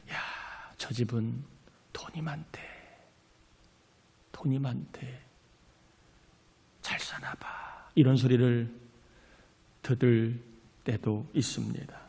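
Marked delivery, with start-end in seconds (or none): 0.1-7.9 수군거림 흉내. Retold or imitated.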